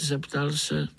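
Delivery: usual speaking voice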